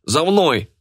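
high-pitched rallying cry; urgent call. A narrator's reading. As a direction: call them to follow at once. Leading an escape from the brawl. (призывный возглас)

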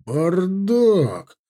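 high, loud angry bark. A narrator's reading. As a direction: bark it in disgust. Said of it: "рявкнул Давыдов".

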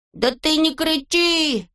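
high and slow; calm him down; soothing Neznaika. A narrator's reading. Neznaika calms Toropyshka, high and slow.

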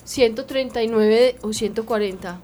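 congested voice from the flu; stuffy nose. Real, not acted. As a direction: talk through a blocked nose. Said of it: "Es porque tengo gripa".

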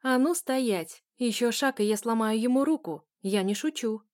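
громко и властно, с угрозой; кричит, чтобы остановить; угрожающий крик. Acted. Угроза, держит в болевом захвате. (угрожающий крик)

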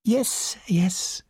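soothing character voice, falling away; gentle. A narrator's reading. Poirot soothes the frightened girl, gently. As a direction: humour her gently. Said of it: "said Poirot gently".

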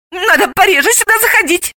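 high-pitched alarmed remark; frightened. A narrator's reading. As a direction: react with a little scare. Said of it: "испугалась Галина".

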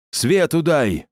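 громкий приказной окрик, выше; рявкни команду; гаркнуть. Acted. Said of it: "гаркнул стрелец". (громкий окрик)

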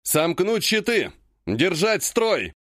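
slow, drawn-out battle order; growled command. Acted. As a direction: bark it like a commander on the line. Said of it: "Рычу я".

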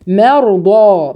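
مرضى slowly with thin م, heavy ر and ض; slow tajweed. Shown as a demonstration. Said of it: "رقق الميم وفخم الراء". (مرضى بترقيق الميم وتفخيم الراء والضاد)

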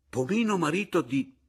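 high, loud, faltering disbelief; stammering. A narrator's reading. Husband hears of his wife's remarriage, stammering.

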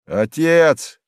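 a resonant cry; ringing call. A narrator's reading. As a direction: call up to him clearly. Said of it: "звучный голос Евлампии".

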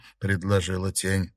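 usual speaking voice

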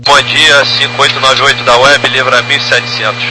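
pilot over the radio. Real, not acted.

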